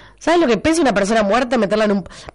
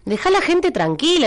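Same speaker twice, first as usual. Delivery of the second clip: scolding; 6 semitones higher than usual. Real, not acted. Scolding a listener on air.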